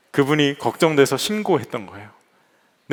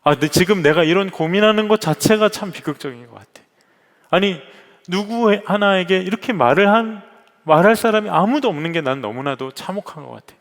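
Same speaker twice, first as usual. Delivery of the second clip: retold anguish; 4 semitones higher than usual. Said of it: "갑자기 서러움이 몰려온 거예요".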